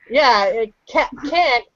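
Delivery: "can't" said with a short front a, kʰænt; correct can't. Shown as a demonstration. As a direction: model the word "can't" slowly and clearly. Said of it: "to answer your question, can't".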